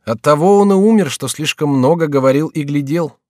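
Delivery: high, loud bitter punchline; grim loud retort. Acted. Saint-Luc answers his wife with loud bitter irony. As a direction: throw the answer out with bite.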